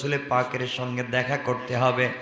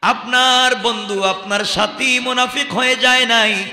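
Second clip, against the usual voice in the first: acted wailing plea; 11 semitones higher, 9 dB louder than usual. Companion denying he is a hypocrite, acted wailing plea. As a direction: plead at the top of the voice, lightly tearful. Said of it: "হাউমাউ করে বাচ্চাদের মতো কাঁদতে".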